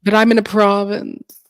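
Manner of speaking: put-on Palm Beach lockjaw accent; posh talk with a tight jaw; through gritted teeth. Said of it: "talk through your teeth like they do up in Palm Beach".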